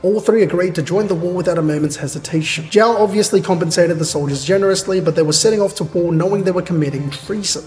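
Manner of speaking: measured narrator reading; story narration. A narrator's reading. Reader narrating the battle to chat, measured narration. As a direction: read it out as a story recap.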